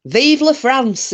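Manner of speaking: a hint of a Frenchman, high and slow; lightly voiced Frenchman; joke Frenchman. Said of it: "Frenchman said".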